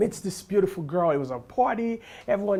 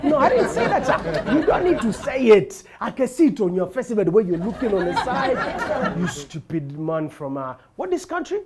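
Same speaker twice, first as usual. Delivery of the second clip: insulting woman; 4 dB louder than usual. Retold or imitated.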